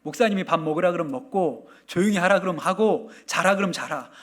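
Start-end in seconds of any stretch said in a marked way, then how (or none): none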